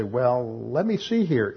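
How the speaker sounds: retold musing, pitch lifting on "let me see"; puzzled pondering. Preacher replaying his own head-scratching at others' claim, mock pondering. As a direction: mull it over in mock puzzlement. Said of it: "scratched my head a little bit".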